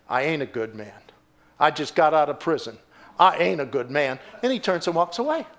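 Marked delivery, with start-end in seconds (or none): 0.1-4.2 shabby ex-convict. Retold or imitated. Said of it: "looked like he was kinda, like, homeless".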